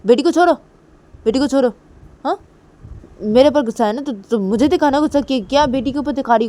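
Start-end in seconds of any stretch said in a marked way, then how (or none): 0.0-0.5 loud, high, rising demand; angry demand. Acted. Demanding she release daughter. 1.2-2.4 loud repeated order, falling; firm demand. Acted.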